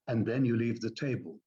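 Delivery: finished, falling tune on "table"; downward inflection. Shown as a demonstration. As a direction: let "table" fall to close the sentence. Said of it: "leave the table is an upward inflection".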